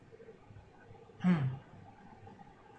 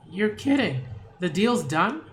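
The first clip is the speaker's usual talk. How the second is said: surprised disbelief; 4 semitones higher, 3 dB louder than usual. Real, not acted. Surprised at the deal.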